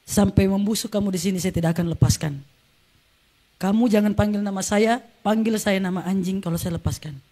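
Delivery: low, measured fatherly threat; restrained, low-voiced menace; retold stern threat. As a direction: imitate a stern father laying down a sentence, pitch dropped. Father's threat to chained child.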